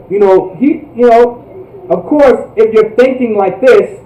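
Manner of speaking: usual speaking voice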